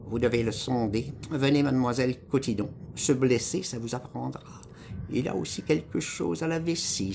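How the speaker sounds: a hint of an officious nurse; lightly voiced bossy nurse. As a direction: give orders as the woman in charge. Voices the hospital women giving orders.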